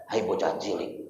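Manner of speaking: put-on low, soft Batak-accented rebuke; Batak village head. Batak village head scolds boy MC, low Batak accent. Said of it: "kepala desanya itu orang Batak".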